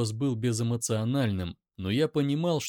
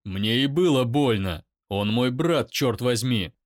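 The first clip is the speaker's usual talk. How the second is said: loud shout back; loud pained shout; angry shout; 6 dB louder than usual. Acted. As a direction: roar it in pain.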